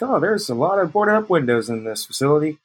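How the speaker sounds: high, casual passer-by remark; nonchalant. Acted. Eavesdropper on a nonchalant walkabout, feigned casual interest. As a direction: idly remark as if just wandering about. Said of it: "do the whole nonchalant walkabout".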